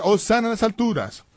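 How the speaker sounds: aclamación en tono alto, sin volumen de grito; grito imitado. Retold or imitated. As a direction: imitar a sacerdotes que aclaman. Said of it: "empezaban a gritar". (grito contenido de alabanza)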